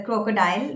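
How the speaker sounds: "crocodile" as KROH-kuh-dile with a long first o; children's mispronunciation. Retold or imitated. Coach quoting children's mistake, children's mispronunciation. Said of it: "I have seen children pronouncing it as".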